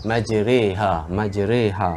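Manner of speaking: majreha slowly with "re"; slow re reading. Shown as a demonstration. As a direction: say majreha with "re" not "ri". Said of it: "re, re".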